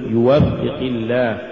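slow يوفق, leaning on waf; correct stress. Shown as a demonstration. Teacher repeats correct recitation, waf in يوفق stressed. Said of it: "قل".

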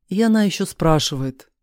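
usual speaking voice

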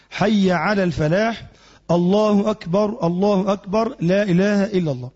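slow, chanted call to prayer; demonstrating the call to prayer; adhan recitation. Shown as a demonstration. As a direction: recite the adhan calmly, stretching the phrases. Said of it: "فهنا يقول".

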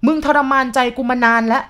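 put-on old man raging while whipping her; furious old man. A narrator's reading. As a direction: scream it as he lashes her.

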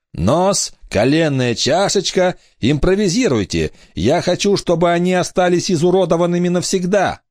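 high, pondering villain; musing pirate captain. Acted. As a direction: muse over the cruelty. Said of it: "почти философскую интонацию".

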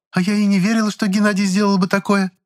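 put-on high, earnest girl's voice; young girl's voice. A narrator's reading. Lizonka insisting she never believed Gennady guilty, high and earnest. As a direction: speak up brightly as a young girl.

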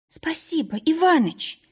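high, choked sobbing thanks. A narrator's reading. Polina thanks the owner, sobbing. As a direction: thank him through a sob. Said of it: "Полина всхлипнула".

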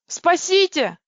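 high, loud scream for help. A narrator's reading. Girl fleeing a monster, screaming for help. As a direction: shriek it as you run from the monster. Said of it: "завопила я".

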